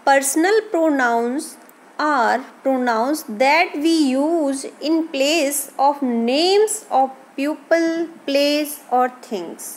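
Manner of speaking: reading a definition slowly, word by word. Acted. Teacher reading a definition to students, slow and deliberate. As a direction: spell out the definition for the class.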